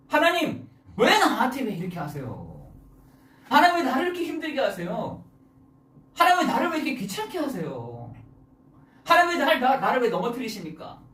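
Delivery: acted pleading, high starts falling away; imitating an aggrieved plea; plaintive complaint. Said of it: "하나님께 하소연하지 않으세요".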